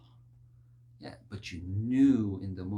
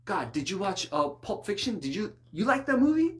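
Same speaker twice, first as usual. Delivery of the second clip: mock casual chatter; 9 semitones higher, 7 dB louder than usual.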